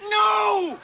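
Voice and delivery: drawn-out yell of refusal; outraged cry; appalled shout. Acted. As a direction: shout the doctor down in disbelief. Husband appalled doctor wants valium himself.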